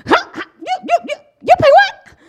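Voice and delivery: high, incredulous gasps of shock; shocked gasping. Retold or imitated. Wife reacting to the perfume's price, shocked high gasps. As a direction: gasp at the price in disbelief. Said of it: "my husband will tell you, I was".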